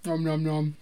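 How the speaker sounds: chewing noisily; eating while talking; mouth full. Real, not acted. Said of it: "I can't talk and eat".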